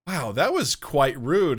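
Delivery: slow, mock-polite understatement; polite British reply. Host retelling an actor's comeback to an interviewer, mock polite. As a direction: imitate a mildly affronted, courteous Brit. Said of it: "polite way".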